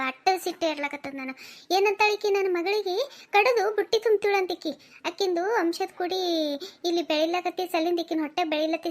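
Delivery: acted mother pouring out a complaint; heated, emphatic grievance; aggrieved mother, indignant. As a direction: report the insults to your husband, incensed. Mother complains to her husband.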